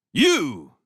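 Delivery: loud high yell, sudden. A narrator's reading. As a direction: bark YOU to make her jump. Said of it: "he yelled at Laya".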